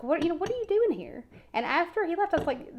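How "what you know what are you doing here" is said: high, loud, indignant demand; confronting. Retold or imitated. Woman confronting drunk ex at funeral, high indignant demand.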